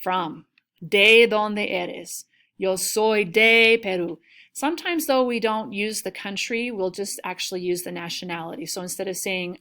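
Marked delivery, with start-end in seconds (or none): 0.9-4.2 very slow, louder, each word spelled out; slow model dialogue. Shown as a demonstration. Teacher modelling the question and answer slowly and loudly. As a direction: drill it slowly for the class. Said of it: "this keyword de".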